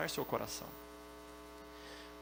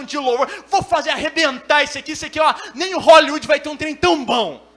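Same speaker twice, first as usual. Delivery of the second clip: loud, boastful bluster building higher; cocky brave newcomer; 6 semitones higher, 13 dB louder than usual. Acted. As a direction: brag at full volume, mock overconfidence. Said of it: "Tá lá, valente". (valentão fanfarrão, aos brados)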